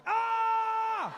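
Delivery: startled scream. Retold or imitated. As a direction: jump out of your skin with a shriek. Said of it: "And I was like".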